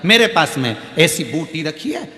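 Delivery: a hint of a wise old guru soothing her; consoling guru. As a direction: guru consoling the crying widow, lightly voiced. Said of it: "गुरु जी बोले".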